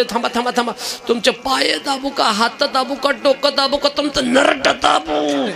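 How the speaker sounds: pampering wife. Acted. Wife pampering, joke twist.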